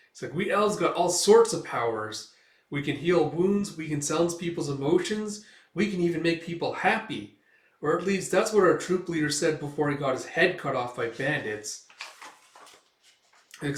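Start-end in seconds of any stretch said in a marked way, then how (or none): 0.3-11.9 higher, lilting elf chatter; light take on a boastful elf; lightly voiced chatty elf. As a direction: show off with a lifted pitch. Elf brags about his powers.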